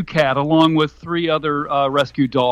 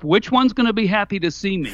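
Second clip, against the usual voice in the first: laughing; 4 semitones higher, faster than usual. Real, not acted. Laughing at own joke.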